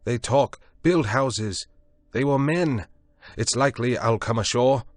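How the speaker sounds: high, loud scornful defiance; scornful retort. A narrator's reading. Prendick scornfully shouts back at Moreau's offer. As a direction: throw his offer back at him.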